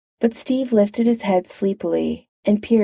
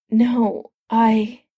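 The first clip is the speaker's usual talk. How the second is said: choked off; 4 semitones higher than usual. Acted. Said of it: "Tony choked to a stop".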